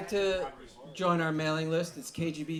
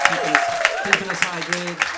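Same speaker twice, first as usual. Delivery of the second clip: loud shout-out; 3 semitones higher, 12 dB louder than usual. Real, not acted.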